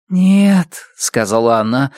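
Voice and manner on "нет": tender. A narrator's reading. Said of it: "баюкая птиц в руках".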